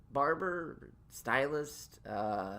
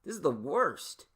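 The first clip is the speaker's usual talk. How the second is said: mock panic; 5 dB louder than usual. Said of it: "and I'm like".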